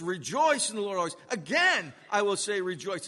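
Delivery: loud, insistent hit on "Again"; emphatic command. Retold or imitated. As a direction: quote it as a pressing command, punching "Again". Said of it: "it's given like this".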